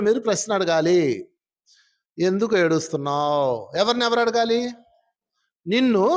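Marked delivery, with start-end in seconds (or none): 2.2-3.7 low, drawn-out question; slow self-questioning. Shown as a demonstration. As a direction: ask it slowly and low, as if to your inner self. Models asking oneself why one cries. (తనను తానే నెమ్మదిగా, తగ్గు స్వరంలో ప్రశ్నించుకోవడం)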